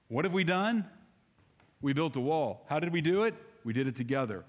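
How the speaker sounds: ordinary delivery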